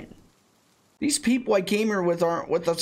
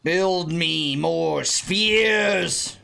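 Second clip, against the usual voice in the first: villain parody; slower than usual. Acted.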